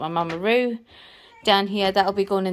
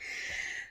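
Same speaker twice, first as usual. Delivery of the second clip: breathless sigh; 15 dB quieter than usual. Real, not acted. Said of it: "I'm so out of breath".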